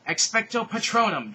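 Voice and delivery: loud, high, slow spell cast; shouted spell. Acted. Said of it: "Draco shouted".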